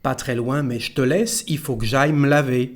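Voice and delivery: "me laver" run together as m'lavé; contracted spoken French. Shown as a demonstration. Teacher giving the whole sentence, "me laver" contracted to m'lavé. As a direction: link the phrase, "il faut" as ee-fo, "me laver" as m'lavé. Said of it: "without the letter E".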